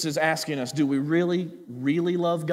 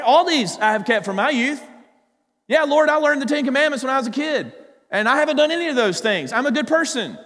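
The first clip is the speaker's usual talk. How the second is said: self-satisfied rich man; 7 semitones higher, 4 dB louder than usual. Retold or imitated. Voicing the rich young man.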